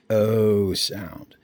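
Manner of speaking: O said as a long, round "oh"; long O sound. Shown as a demonstration. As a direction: stretch O like "oh", then "sound". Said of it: "the dot is on top".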